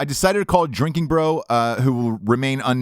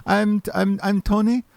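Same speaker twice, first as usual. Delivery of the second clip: a light imitation of an Indian call-center accent, pitched higher; mock Indian accent; 9 semitones higher, slower than usual. Caller mimicking the Indian agent who claims to be Tony, light Indian accent. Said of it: "this first guy sounded Indian".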